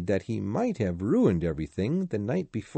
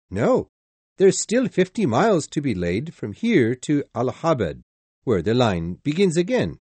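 conductor voice; 3 semitones higher, 5 dB louder than usual. Acted. Conductor explains.

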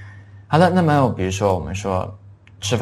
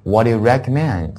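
clear, connected English question for repeating; teacher's careful model sentence; read-along model; 3 dB louder than usual. Shown as a demonstration. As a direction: lead the class through the question. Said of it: "一起读一下".

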